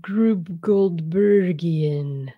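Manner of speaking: very slow, relishing each syllable; drawn-out savoring. Acted. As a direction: stretch the word out playfully. Savoring a fancy word.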